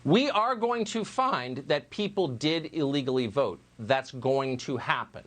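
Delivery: slow, deliberate repeat of a quote; emphatic requote. Retold or imitated. Host repeats an official's admission to viewers, slow and emphatic. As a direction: quote it slowly, giving each word weight.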